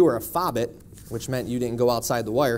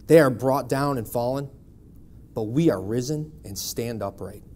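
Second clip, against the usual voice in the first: scripture reading; 2 semitones lower than usual. Acted. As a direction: read the psalm deliberately to the church. Quotes scripture to congregation.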